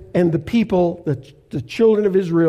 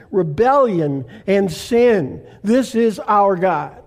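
scripture reading. Acted. Pastor reads scripture slowly.

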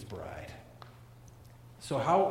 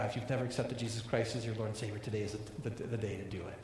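softer, low, intimate appeal; quiet earnest plea; 4 semitones lower, 6 dB quieter, faster than usual. Real, not acted. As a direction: draw them in gently to respond. Pastor's quiet earnest invitation.

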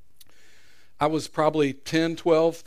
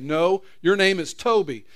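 louder, commanding insistence; stern owner; 4 semitones higher, 5 dB louder than usual. Acted. Owner overruling the captive, loud and hard. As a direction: refuse to accept his answer.

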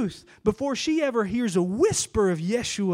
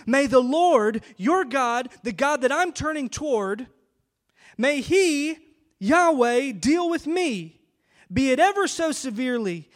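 loud solemn oath; 4 semitones higher, 4 dB louder than usual. Retold or imitated. Ruth's oath with raised hand.

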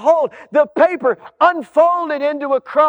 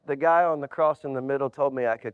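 much lower, softer, hushed answer; quiet punchline; 11 semitones lower, 9 dB quieter, faster than usual. Acted. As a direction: drop to a near-hush for the reveal. Man's quiet final answer.

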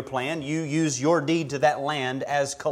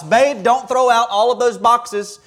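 calling out to the next room; yelling across the room; 5 semitones higher, 5 dB louder than usual. Pretend. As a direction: shout it across the house. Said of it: "yell across the house".

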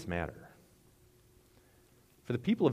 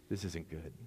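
quiet dread; 4 semitones lower, 9 dB quieter than usual. Retold or imitated. Acts out child caught by teacher.

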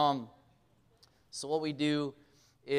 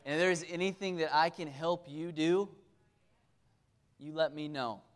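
friendly welcome. Acted. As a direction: gently welcome the new member to church. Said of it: "Instead of going".

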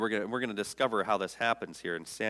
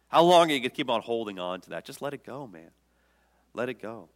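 urgent plea. Acted. God urging to let go.

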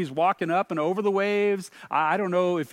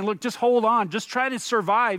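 louder, higher urging; urgent mock advice; 4 semitones higher, 5 dB louder than usual. Preacher voicing what Jesus is not saying, urgent and raised. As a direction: press it like hurried encouragement to endure.

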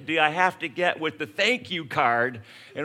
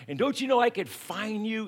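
higher, stern lecturing police officer; fuming cop; 6 semitones higher than usual. Retold or imitated. Cop scolding a speeding driver, stern and higher.

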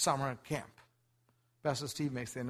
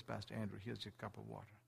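gentle offer; 3 semitones lower, 12 dB quieter than usual. Retold or imitated. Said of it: "and says".

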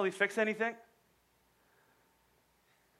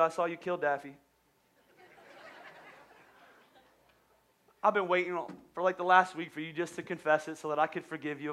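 gentle grandma; 2 semitones lower than usual. Retold or imitated. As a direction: reassure him like a loving grandma. Grandma forgiving the boy.

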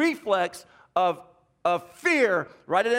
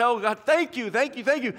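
relieved thanks; 4 semitones higher than usual. Retold or imitated. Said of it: "I hug her and say".

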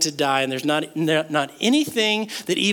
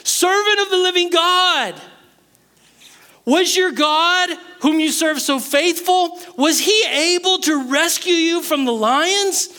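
calling out in anguish; 10 semitones higher than usual. Acted. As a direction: call down into the den, desperate. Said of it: "he calls out in anguish".

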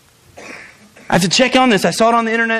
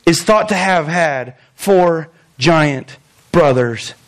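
deadpan professor; 6 semitones lower, slower than usual. Retold or imitated. Professor's terse written reply read out.

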